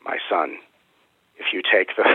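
a hint of a loving biblical sage; lightly played spirit guide, solemn and unhurried; Melchizedek. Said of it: "he's talking to me in this very loving but biblical tone".

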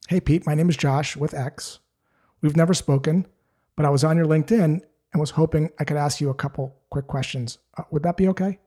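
calm, easygoing cold-call ask; a calm caller politely asking permission. Shown as a demonstration. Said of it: "Just like that in a very calm way".

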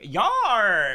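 high, loud drawn-out cry of exasperation; mock outburst. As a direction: holler it in mock outrage at your friends. Acts exasperated reaction to friends.

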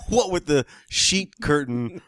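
laughing through a joke, slow. Real, not acted. Joking to a friend about his sheet curtain, laughing. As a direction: chuckle while mocking your own apartment.

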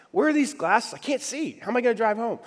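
agitated. Retold or imitated. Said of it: "getting more agitated".

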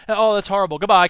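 token sympathy, then abrupt goodbye; mock concern cut off by a curt sign-off; fleeting concern. Congressional office brushing off callers, fleeting concern. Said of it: "it was very fleeting".

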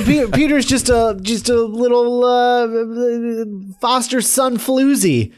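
mock sneer. Joking insult about Peter.

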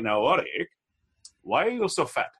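lightly imitated Sri Lankan accent; a blunt question in a mild Sri Lankan accent. Mother-in-law questioning him after dinner, mild Sri Lankan accent. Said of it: "I'll say in that accent".

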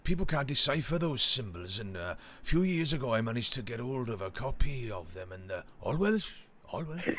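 lightly voiced Welsh theorist; casual mock Welsh, lifting at the end; a touch of Welsh lilt, imitating an amateur scholar; imitated Welsh accent. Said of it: "he does it in a Welsh accent".

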